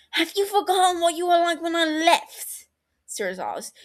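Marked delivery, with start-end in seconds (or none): 0.1-2.7 hurt, near tears. Acted. Brother confronting Sirius, voice breaking. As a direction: voice cracking with hurt.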